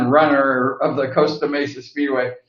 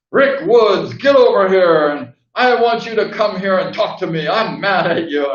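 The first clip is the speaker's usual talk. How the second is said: mock yell, higher, calling a rider over; imitating a stern lady summoning a rider; retold yell; 3 semitones higher than usual. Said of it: "yelling at people".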